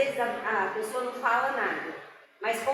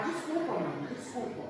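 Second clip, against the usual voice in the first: soft apology; 5 dB quieter than usual. Retold or imitated. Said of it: "a Cláudia fala".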